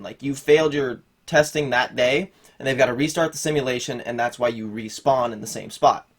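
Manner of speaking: talking around something in the mouth; muffled, with a mouth full. Real, not acted. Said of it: "I've got a lightsaber in my mouth".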